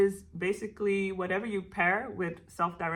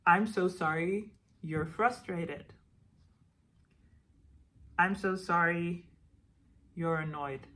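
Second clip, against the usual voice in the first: gentle self-compassion. Shown as a demonstration. Guiding viewers through self-compassion sentences, gently comforting. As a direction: say it as if comforting a hurt part of you. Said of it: "give yourself compassion in the way that I just did".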